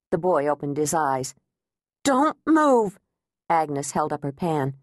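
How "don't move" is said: higher, louder command; sharp warning. Acted. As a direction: stop him cold. Threatening the intruder.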